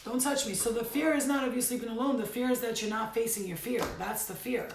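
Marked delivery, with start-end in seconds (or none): 0.0-0.5 firm command. Pretend. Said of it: "You could be like".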